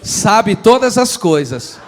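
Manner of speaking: slow, booming proclamation for the congregation to repeat; very loud. Shown as a demonstration. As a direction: proclaim it at full volume, drawing out each phrase. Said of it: "Diga bem forte". (bem forte, proclamando devagar)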